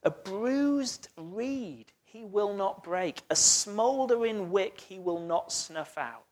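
quietly dwelling on the gentle promise; gentle reading. Shown as a demonstration. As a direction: lay the words down gently, like handling something fragile. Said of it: "do you notice in the middle what it says?".

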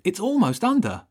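high, loud urgent shout. A narrator's reading. Boy warns the boat is almost under, shouting. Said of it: "Wilf shouted".

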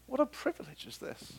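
awed. Real, not acted.

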